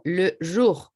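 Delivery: "le jour" with a French schwa in "le"; French pronunciation. Shown as a demonstration. Teacher showing students an example word, French pronunciation. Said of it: "cuando yo tengo esta palabrita".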